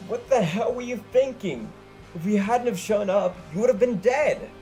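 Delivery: high, loud shriek; furious shriek at a friend who nearly died. Acted. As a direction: scream at her in fright and anger. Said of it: "The rainbow-headed girl shrieked".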